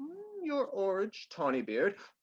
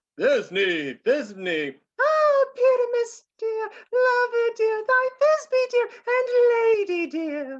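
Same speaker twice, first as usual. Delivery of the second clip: put-on tiny voice, very high and loud; 8 dB louder than usual. Volunteering to play the lady Thisbe too, in a monstrous little voice. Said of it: "I'll speak in a monstrous little voice".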